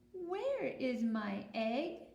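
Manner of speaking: slow, drawn-out just-woken bunny; sleepy bunny. Acted. Teacher voicing the just-woken bunny, slow. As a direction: ask it slowly, still waking. Bunny wakes, asks slowly.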